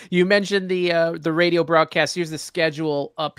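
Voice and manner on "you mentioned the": host laughing after the guest's quip. Real, not acted. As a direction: still chuckling as the line starts.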